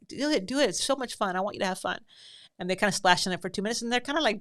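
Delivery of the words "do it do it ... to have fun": mock encouraging. To the splashing boys, mock eager cheering. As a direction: egg the boys on with fake delight. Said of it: "standing there going".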